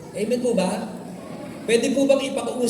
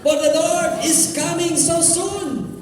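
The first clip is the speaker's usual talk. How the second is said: mild prophet cry; 4 semitones higher, slower than usual. Retold or imitated. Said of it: "sumisigaw siya".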